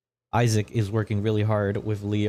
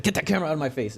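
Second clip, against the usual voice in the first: camera-shy merchant; 7 semitones higher, much faster than usual. Acted. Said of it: "He's like".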